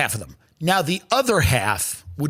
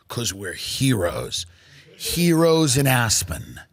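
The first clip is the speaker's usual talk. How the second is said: sarcastic mock heroics; 4 semitones lower than usual.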